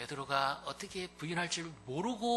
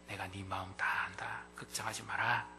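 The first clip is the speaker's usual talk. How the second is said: tender whisper; 3 semitones lower than usual. Acted. Jesus comforting Peter in a whisper. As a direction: breathe the comfort gently to him.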